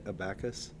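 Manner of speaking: abacus said as uh-BACK-us, stress on the second syllable; "abacus" mispronounced as a-BAC-us, unsure; doubtful pronunciation. Real, not acted. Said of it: "Is that how you say it".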